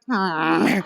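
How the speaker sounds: a hint of a Kermit hmm; low froggy puppet hum. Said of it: "that I was Kermit the Frog".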